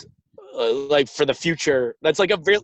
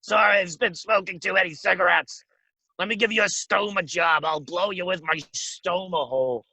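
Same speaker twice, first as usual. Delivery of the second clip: mock a smoker talking through a stoma; 2 semitones higher than usual. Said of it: "I had to go like this".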